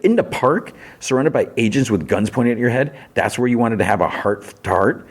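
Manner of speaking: mildly incredulous, starting high; incredulous retort. Retold or imitated. She challenges him over talking in the park, mock incredulous. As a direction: toss the question back in mild disbelief.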